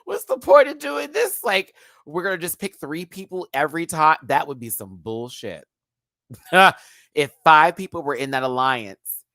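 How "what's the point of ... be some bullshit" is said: high-pitched mock exasperation; imitated fed-up queen; Monet. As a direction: protest it, starting high and coming down. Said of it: "I know Monet was like".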